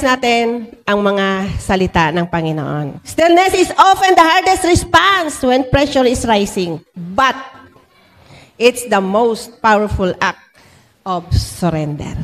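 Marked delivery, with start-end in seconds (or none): 3.0-12.1 slow, measured proclamation with long pauses; deliberate sermon read-out. Acted. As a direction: let each phrase land slowly before the next. Reads out the sermon's key statement. (mabagal at madiing pagbigkas)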